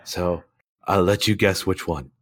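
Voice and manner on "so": rough, worn-out voice; hoarse voice. Real, not acted. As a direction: croak through a lost voice. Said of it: "You sound hilarious".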